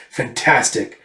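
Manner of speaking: slow, chuckled approval; chuckle, then savour the word slowly; darkly amused, drawn out; villainous relish. Acted. Villain relishes her confession.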